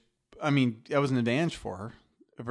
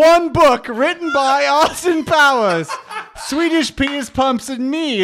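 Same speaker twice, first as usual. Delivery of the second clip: slow, much higher, louder mock reading; mock officer's inventory; 13 semitones higher, 8 dB louder, slower than usual. S1 retells Austin Powers, officer reads the evidence slowly. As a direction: drawl out the list. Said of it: "It's like".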